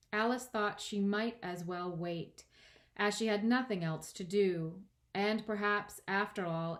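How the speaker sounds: measured storybook reading; expressive audiobook narration; story narration. A narrator's reading. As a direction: narrate with deliberate stresses. Reads the story aloud.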